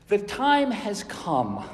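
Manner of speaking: slow, firm soapbox proclamation; angry preacher. Shown as a demonstration. Preacher demonstrating Jesus on the soapbox, angry. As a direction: proclaim it sternly, drawn out. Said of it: "said it with anger, as I said it to you".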